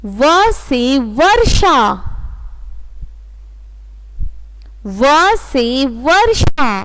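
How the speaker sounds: slow, drawn-out reading of व से वर्षा; slow recitation. Shown as a demonstration. Teacher leading the class, slow chant. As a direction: stretch each word so the kids can echo. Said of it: "मेरे साथ पढ़िए आप लोग".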